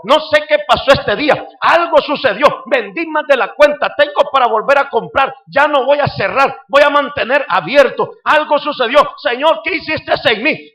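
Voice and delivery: put-on a touch of an astonished older woman; amazed vendor woman. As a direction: wonder aloud at your sudden luck.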